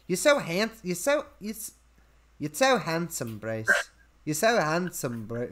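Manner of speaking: lightly put-on British accent; Margot Robbie. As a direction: imitate a British woman, restarting the compliment. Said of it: "Robbie playing a British woman".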